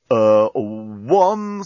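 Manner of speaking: talking bomb. Acted. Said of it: "said the bomb".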